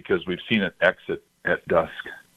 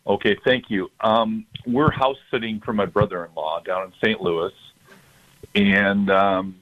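caller heard through a speakerphone; phone-line voice from a speaker. Real, not acted. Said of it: "I've got you on speaker".

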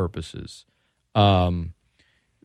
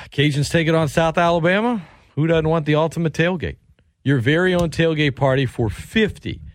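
live ad read. Acted. Sports radio host reading a sponsor promo to listeners, upbeat ad read. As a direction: sell the tailgate prize like a radio spot.

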